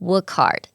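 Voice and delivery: "Work hard" as wor-kard; dropped H. Shown as a demonstration. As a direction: link k straight into hard without its h. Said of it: "เสียง H หายไปนะคะ". (Work hard ไม่ออกเสียง h)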